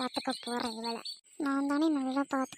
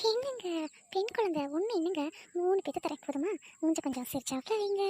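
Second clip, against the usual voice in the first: put-on high, light young wife's voice; 4 semitones higher than usual. Wife answering her husband, in a high girlish voice. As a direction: lift into a sweet, girlish wife.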